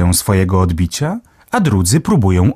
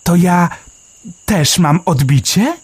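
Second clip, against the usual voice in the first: a small bird marvelling, pitched way up; Melek the sparrow; 10 semitones higher than usual. A narrator's reading. Sparrow Melek marvelling underground, high chirpy voice.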